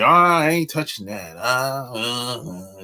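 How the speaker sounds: mild, uneasy imitation of scared people; mock scared. Mimicking people who shy away from taboo subjects, mock scared. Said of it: "They start acting all weird".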